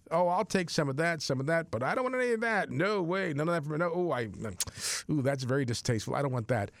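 mock a choosy churchgoer, voice lifted, tapering off; picky believer. Picky Catholic choosing parts of the faith, lightly mocking.

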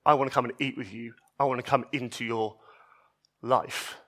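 tender invitation. Retold or imitated. Jesus to the outcasts and sinners, soft and tender. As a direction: offer it quietly, like to a frightened person.

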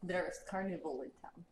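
put-on quiet heavy Russian accent. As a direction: speak like a Russian giant. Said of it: "He says in, in common".

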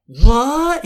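high, loud mock-shocked question; a rapper. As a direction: imitate overacted disbelief, swooping upward. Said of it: "he's just like".

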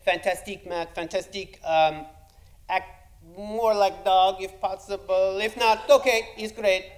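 Spanish director coaching his actor softly; quiet Spanish accent. Retold or imitated. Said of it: "thick yet quiet Spanish accent".

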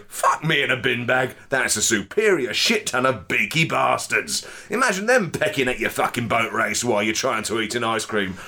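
indignant Cockney rant, lightly played; freestyle Cockney. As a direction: rant about the birds in broad Cockney. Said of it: "freestyle in terms of accents".

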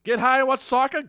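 high, loud, thrilled pitch; excited. Real, not acted. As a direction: sell the idea with big excitement.

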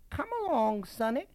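high, lilting Southern belle; gracious Southern lady. A narrator's reading. Lady leading the boy through her house, gracious Southern accent. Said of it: "her voice becoming more southern with her every gracious move".

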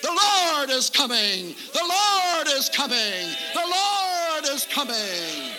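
slow ringing preacher's cry; joyful shout. Retold or imitated. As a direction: call out the good news with joy.

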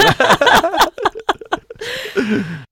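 a high, delighted laugh breaking out; loud amused laughter; big burst of laughter. Real, not acted. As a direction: laugh freely at your own joke. Laughing at own quip.

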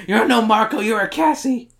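hammed-up scornful retort; mock rebuke. Acted retort in retold exchange.

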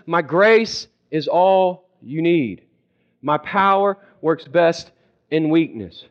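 slow, measured, steady answer; calm divine reply. Acted. God answering a frustrated believer, calm and unhurried. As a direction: answer the outburst calmly, word by word. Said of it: "He looks at us and he says".

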